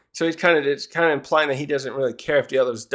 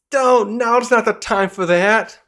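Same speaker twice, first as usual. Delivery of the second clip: higher voice, slowed down; Ripley; 7 semitones higher, 4 dB louder than usual. Acted. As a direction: brush off the proud father. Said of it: "And she's like".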